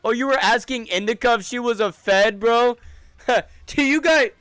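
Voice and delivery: high, loud, laughing question; laughing disbelief. Real, not acted. Streamer laughing at friend's question to a viewer, high laughing. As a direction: ask it cracking up in disbelief.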